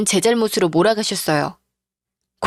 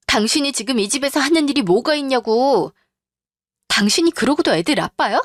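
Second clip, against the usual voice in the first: raised-pitch scolding, mildly heated; fed-up wife; 4 semitones higher than usual. Acted. Wife berating her jobless husband, indignant. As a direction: lay out his failings, indignant.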